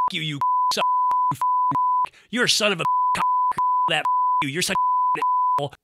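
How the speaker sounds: high squeaky falsetto imitation of a cursing cheerleader; imitating an enraged cheerleader in a high squeaky put-on voice; mock cheerleader tirade. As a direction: squeal the curses out fast in a mocking falsetto. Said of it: "this cheerleader let out with a stream of obscenities".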